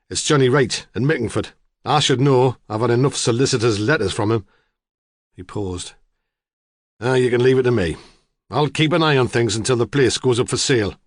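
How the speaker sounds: a hint of a gruff know-all farmer; blunt farmer. Farmer telling the detective local gossip, blunt.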